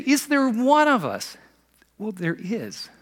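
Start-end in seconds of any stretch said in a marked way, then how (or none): 0.1-1.4 higher, slow mock sneer. Pharisees scoffing at their own council, mock sneer. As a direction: lightly sneer the question. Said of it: "when they say".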